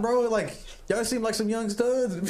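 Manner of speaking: high, slow teasing voice; high drawn-out mock compliment to the young workers; mock praise. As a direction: tease them in a lifted, drawn voice. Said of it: "I wanted to tell him".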